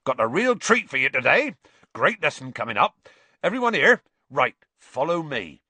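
loud, eager call to a group. A narrator's reading. Hagrid greeting his class at the hut, calling out. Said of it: "he called as the class approached".

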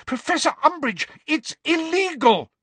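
very high frantic protest; shriek. A narrator's reading. Hermione protesting to the professor, shrieked high. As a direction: shriek a desperate objection. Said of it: "shrieked Hermione".

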